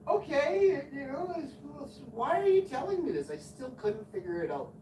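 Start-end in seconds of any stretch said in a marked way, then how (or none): 0.1-3.3 high baffled question. Retold or imitated. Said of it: "And I'm like".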